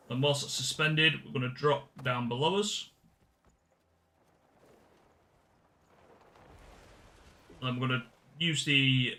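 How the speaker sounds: even, instructional walkthrough voice; video guide narration. Acted. Streamer showing viewers how to do the puzzle, instructional. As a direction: talk viewers through it step by step.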